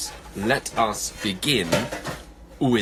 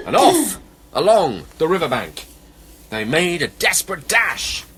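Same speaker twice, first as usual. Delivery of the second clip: animated, higher, dramatic verse reading; children's story narration; 7 semitones higher, 6 dB louder than usual. A narrator's reading. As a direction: tell the escape excitedly to children. Reads a children's poem.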